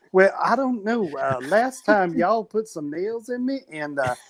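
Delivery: put-on puppet Jesus in a wobbly hood accent; hammed-up hood accent, politely declining; shifting put-on accent. Puppet Jesus turning down a return trip, shifting hood accent. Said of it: "every time we flash back to him, his accent changes".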